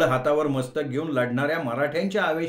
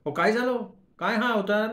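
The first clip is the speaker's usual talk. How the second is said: much higher, alarmed questions; startled wife; 7 semitones higher than usual. Acted. Wife at the door sees her husband's state, much higher and startled. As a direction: gasp at the state he's in. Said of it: "डुम्मीने विचारलं".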